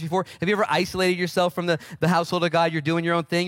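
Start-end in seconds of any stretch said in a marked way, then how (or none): none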